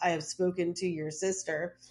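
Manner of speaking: plain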